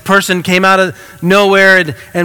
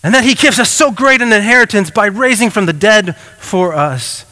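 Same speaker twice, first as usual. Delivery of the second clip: fervent preaching; 2 semitones higher than usual. Real, not acted. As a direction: drive it home to the congregation. Preaching at full force.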